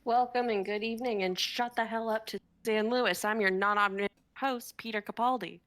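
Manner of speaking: a hint of a smarmy host; lightly voiced game show host. Host greeting the contestants, as a lightly played game show host. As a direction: welcome the crowd like a cheesy host.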